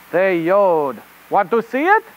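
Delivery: put-on rabbit reporter in a hammy French accent; host a children's show in bad French-accented English; really bad French accent. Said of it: "with a really bad French".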